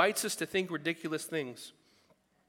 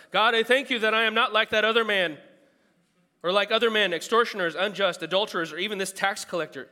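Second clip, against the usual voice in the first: louder, higher, self-satisfied prayer; proud Pharisee; 6 semitones higher, 9 dB louder than usual. Acted. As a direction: pray like a smug Pharisee showing off.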